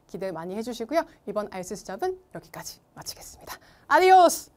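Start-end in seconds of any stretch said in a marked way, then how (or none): 1.3-3.6 whisper. Real, not acted. Signing off. 3.9-4.5 cheerful shout. Real, not acted. Sign-off shout.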